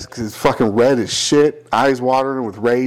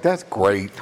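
dry sarcasm; 3 semitones lower, 4 dB quieter than usual. Retold or imitated. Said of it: "I was like".

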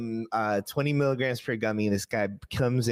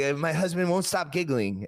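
imitating the wife; 8 semitones higher than usual. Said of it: "No, she's like".

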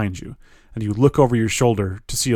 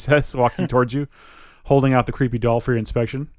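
normal talking voice

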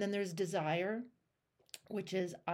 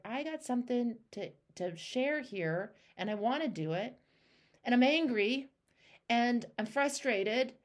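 building from eager to a louder angry outburst; voiced frustration; 5 semitones higher, 4 dB louder than usual. Coach voicing client's anger, building to louder frustration. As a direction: speak as her, rising into anger.

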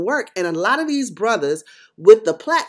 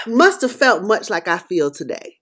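ordinary talk

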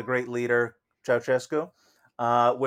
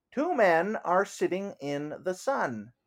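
slow, careful phrasebook English; halting phrasebook tourist; 5 semitones higher, slower than usual. Acted. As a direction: read it like a tourist checking the phrase book. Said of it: "As if an English tourist ... then in English".

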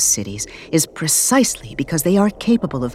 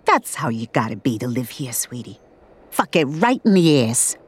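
put-on old lady; 4 semitones lower than usual. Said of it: "says the old lady".

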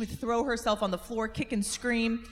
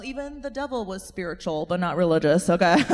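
laughing comeback; 2 semitones lower, 8 dB louder than usual. Real, not acted. Laughing at her own comeback.

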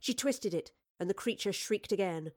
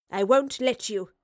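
loud, slow, firm refusal; stern; 3 semitones higher, 7 dB louder than usual. A narrator's reading. Professor defies the wraith with a poker, stern. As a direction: stand firm, each word weighted. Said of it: "the professor said sternly".

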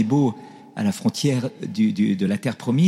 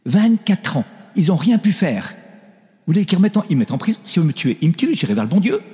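higher and louder, laughing at the danger; laughing defiance; 7 semitones higher, 4 dB louder than usual. Retold or imitated. Old Chinese bishop laughs off police threat, loud and laughing. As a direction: fearless old man, laughing loudly. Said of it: "Il éclate de rire".

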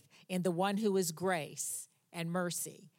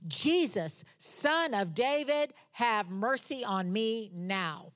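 raised, slow plea of a blind beggar; shouting; 3 dB louder, slower than usual. Retold or imitated. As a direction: call out to Jesus, begging. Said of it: "he began to shout".

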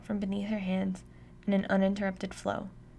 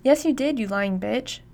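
screaming; 3 semitones higher, 6 dB louder than usual. A narrator's reading. Drugged dad screams at lying mom, loud rage. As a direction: scream it at her, erupting. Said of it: "Dad screams".

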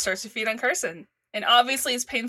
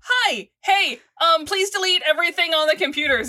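hurried greeting; 5 semitones higher, 3 dB louder than usual. Acted. Voices Carson bursting in urgently.

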